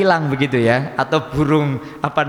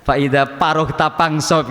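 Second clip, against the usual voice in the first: put-on Sundanese accent; slower than usual. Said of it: "Kalau orang Sunda biasanya".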